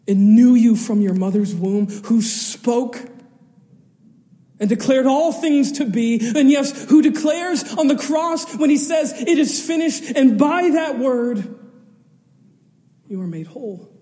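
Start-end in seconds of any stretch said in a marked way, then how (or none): 0.1-11.6 building louder, higher proclamation; rising preaching. Acted. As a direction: build it to a climax. Building litany of "who spoke.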